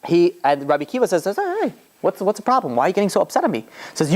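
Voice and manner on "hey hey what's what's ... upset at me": high-pitched retold protest; lightly acted, high "what's the problem" voice; mock-innocent protest. Rabbi placating the angry governor.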